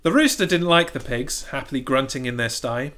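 normal talking voice

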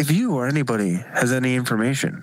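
hushed mystery host; whispering. Pretend. Whispered Unsolved Mysteries parody.

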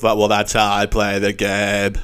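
slow, smug "that's how I play the game"; lightly voiced smug contestant; mock smug reply. Contestant answering his critics, slow and smug. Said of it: "he claps back with".

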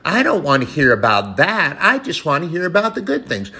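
lightly voiced whiny complainer; a hint of a churchgoer whining; mock whiner. Preacher mocking whiners in the church, lightly whiny. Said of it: "Whiners and cries".

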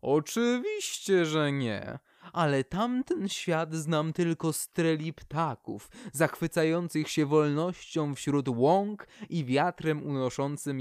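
light up describing the birds' tales of freedom; eager Poplar. Acted. The poplar eagerly tells the birch about the world beyond.

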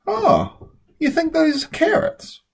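Charlie teasing. A narrator's reading. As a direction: feign surprise to tease her.

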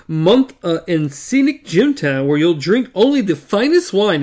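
loud, hammed-up fake British accent; bogus British accent continued. Eddie still pranking Blaine in a fake British accent. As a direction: keep bellowing the plummy British put-on. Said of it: "And he continued".

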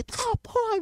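high triumphant gloat; triumphant boast. Retold or imitated. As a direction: rub it in the friends' faces. Showing the number to friends. (gabando-se, agudo e triunfante)

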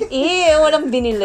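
mock jeer broken up by laughing; laughing tease. Teases friend over buying nothing. (natatawang pang-aasar)

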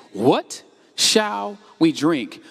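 slow, drawn-out whiny grumble; grumbling complaint. Shown as a demonstration. Preacher voicing the grumbling people, slow and whiny. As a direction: drag the question out like a grumbler. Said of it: "So the people grumbled".

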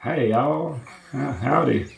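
reluctant Southern drawl greeting; a half-hearted Southern accent. Shown as a demonstration. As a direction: say hello with a Southern twang. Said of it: "I can do a Southern accent".

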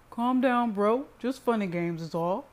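lightly amused brother, loud at first; laughed. A narrator's reading. Teasing brother waves off Cyrus's anger, lightly amused. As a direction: brush it off with a touch of amusement. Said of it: "he laughed".

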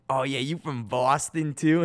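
slow imitation of a teasing Boston accent; drawn-out mock Boston twang. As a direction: mimic someone making fun of a Boston accent. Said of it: "made fun of my accent".

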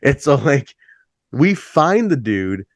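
normal talking voice

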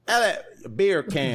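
Beer can in a light mock British accent; a playful British Beer can. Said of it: "in a British accent".

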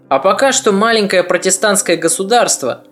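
ordinary delivery, nothing marked

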